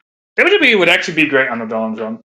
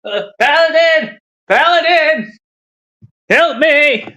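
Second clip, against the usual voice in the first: disgusted Tiffany; 6 semitones higher than usual. Retold or imitated. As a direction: recoil in disgust, then squeal for rescue. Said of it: "And Tiffany's like".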